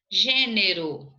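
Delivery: "Gênero" slowly, with a strong GÊ; stress on first syllable. Shown as a demonstration. Teacher showing where the circumflex goes, "Gênero" slow with stressed GÊ. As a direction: lean on the GÊ of "Gênero". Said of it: "Acento circunflexo".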